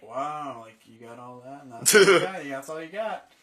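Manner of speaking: mocking laughing crowd; teasing. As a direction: tease him like the room did. Friends mocking him.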